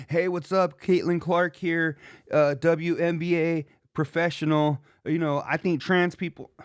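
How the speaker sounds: a hint of a corny impressionist introducing himself; lightly voiced mock Caitlin Clark intro; imitating Rich Davis. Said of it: "Rich Davis doing an impression of Caitlin Clark".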